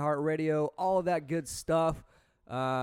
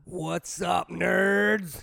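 hype greeting; much slower than usual. Pretend. Guest's hyped greeting.

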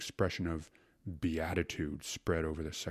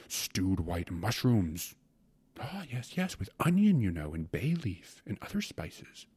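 lightly voiced gourmand, lilting and savoring; rapturous secretary; 5 semitones higher than usual. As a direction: dwell lovingly on each dish. Secretary goes on about mushrooms and pie.

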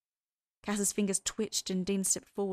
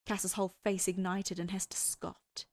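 ordinary delivery

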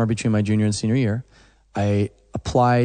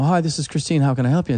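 higher, chirpy receptionist voice; imitated phone greeting; 4 semitones higher, faster than usual. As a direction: answer the phone brightly as a receptionist. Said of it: "they say".

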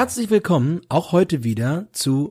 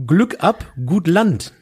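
pilot greeting; 4 semitones higher, 3 dB louder, slower than usual. Shown as a demonstration. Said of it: "landestypisch oder in dem Fall fachtypisch begrüßen".

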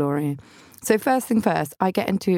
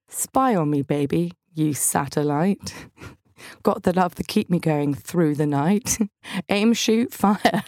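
solemn reading. Pretend. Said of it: "in exactly the same tone".

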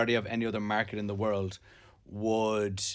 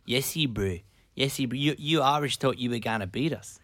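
mock New Zealand rugby banter; attempted New Zealand accent. Answering the Irish about rugby, mock New Zealand accent. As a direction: banter in a put-on Kiwi accent. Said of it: "Can you do a New Zealand accent?".

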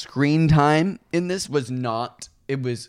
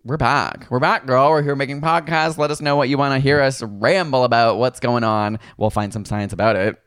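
announcer voice. Acted. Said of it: "I'm doing the announcer voice".

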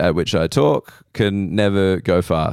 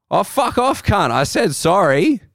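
much higher, indignant mock snarl; mock angry cyclist; 11 semitones higher than usual. Cyclist swearing back while riding away, mock indignant and much higher. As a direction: fire it back over your shoulder.

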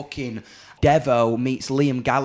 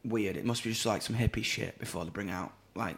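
hushed aside; 4 semitones lower, 9 dB quieter than usual. Retold or imitated. Imitating diners' hushed comments.

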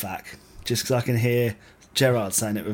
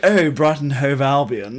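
louder and slower, mock posh; 2 semitones higher, 7 dB louder, slower than usual. Shown as a demonstration. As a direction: drawl it like a snob. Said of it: "If you went".

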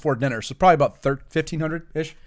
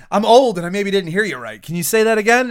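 much higher, louder, incredulous; mock old bartender; 6 semitones higher, 6 dB louder than usual. Bartender can't believe the water order, loud and high. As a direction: play the baffled old barman. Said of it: "looked at him like".

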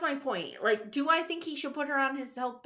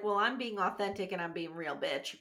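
sassy; 5 semitones lower, 5 dB quieter than usual. Retold or imitated. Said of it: "she's like".

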